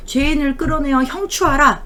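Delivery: a servant calling out an order toward the palanquin; mock servant's shout. Servant shouts the order at the wife's palanquin, mock shout. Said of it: "어떤 소리를 지르냐면".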